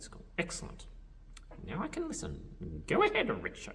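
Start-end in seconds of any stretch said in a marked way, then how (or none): 1.7-3.7 very high puppet voice; graciously permit it in a squeaky-high voice; Grover. Pretend.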